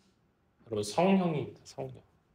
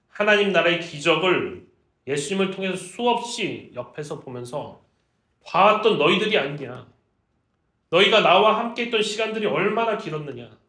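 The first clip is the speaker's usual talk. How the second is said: raised, emphatic reproach; disappointed reproach; 2 semitones higher, 4 dB louder than usual. Acted. Jesus reproaching disciples who saw his miracles, disappointed. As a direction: press them with loud disappointment. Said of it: "살짝 실망감도 비치는".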